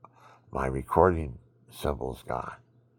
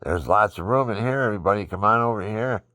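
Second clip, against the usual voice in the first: loud, high, fast demon barker calling everybody in; lightly voiced mock demons shouting come on over; demons inviting; 8 semitones higher, 9 dB louder than usual. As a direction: play demons cheerfully beckoning a crowd. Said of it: "or they say".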